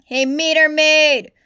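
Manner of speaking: loud, high, slowed taunt across the street; big cop taunting a small rookie; mocking call. A narrator's reading. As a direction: jeer at her to wait. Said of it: "called McHorn".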